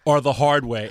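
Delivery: stern movie cop line; tough cop. Retold or imitated. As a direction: play it like a cop.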